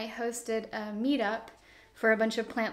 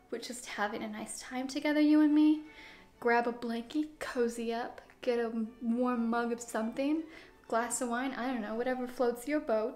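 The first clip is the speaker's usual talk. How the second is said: calm and cozy. Real, not acted. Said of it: "This is just a calm, chill video".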